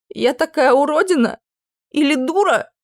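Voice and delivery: half offended, half amazed; indignant surprise. Acted. Princess amazed at the prince's refusal, incredulous. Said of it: "изумилась я".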